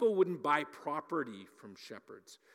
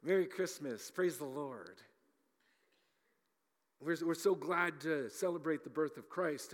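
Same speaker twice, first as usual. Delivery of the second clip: fake cheerful piety; 2 semitones higher than usual. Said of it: "the very typical plastic Christian smile".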